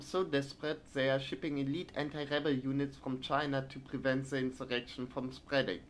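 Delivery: formal news-report reading; newspaper read-aloud. Acted. Gamer reading out a resistance newspaper, formal news read. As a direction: read it out like a wartime bulletin.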